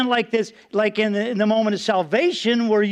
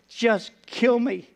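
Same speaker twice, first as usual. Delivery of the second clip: weary plea; slower than usual. Retold or imitated. Despairing plea to God.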